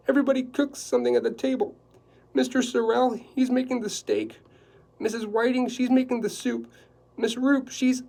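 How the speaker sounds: a high, loud, flustered housekeeper; anxious housekeeper. Acted. Housekeeper explaining the dinner to Quillerin, flustered and high. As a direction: rattle it off in a nervous flurry.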